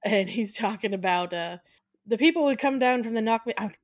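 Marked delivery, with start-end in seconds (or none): 2.0-3.5 put-on Irish tour guide accent. Podcaster playing the bus driver giving a tour, Irish accent. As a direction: attempt an Irish brogue. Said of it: "stop watching movies with accents".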